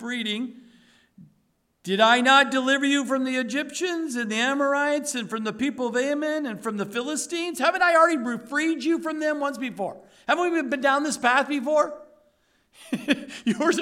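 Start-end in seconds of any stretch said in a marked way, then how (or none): 1.8-12.0 an exasperated Lord demanding answers; rebuking God. Acted. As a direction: scold them like a fed-up God. God voiced rebuking Israel.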